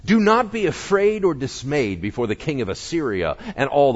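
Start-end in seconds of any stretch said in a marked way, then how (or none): 0.0-2.3 encouraging. A narrator's reading. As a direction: lift their courage. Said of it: "spoke encouragingly to them".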